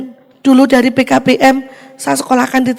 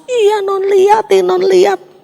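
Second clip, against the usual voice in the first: excited husband; 7 semitones higher, 3 dB louder, slower than usual. Retold or imitated. Husband excited about results.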